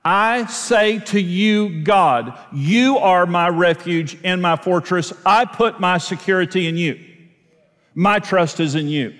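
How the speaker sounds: slow, earnest prayer spoken to God. Shown as a demonstration. Preacher demonstrating a prayer to his congregation, slow and earnest. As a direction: pray it out slowly, like a personal confession. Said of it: "this is gonna come out of my mouth in my prayer time".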